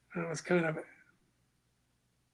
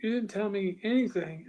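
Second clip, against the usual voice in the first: indignant raised voice; 3 semitones higher, 5 dB louder than usual. Retold or imitated. Heated retold argument with office.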